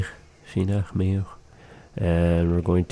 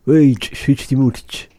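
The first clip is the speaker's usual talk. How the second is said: loud and higher call; louder; 6 semitones higher, 6 dB louder than usual. Shown as a demonstration. A teacher demonstrating the command to speak up, loud. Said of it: "I wanna speak a little louder".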